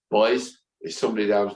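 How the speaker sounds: weak attempt at an Irish accent; lightly voiced Irish landlady; terrible Irish accent. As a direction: have a half-hearted go at an Irish accent. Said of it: "that was a terrible Irish accent".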